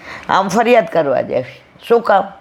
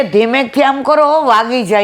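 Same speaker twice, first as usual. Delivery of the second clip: imitating a worried child; 6 semitones higher than usual. Child warns grandma, retold.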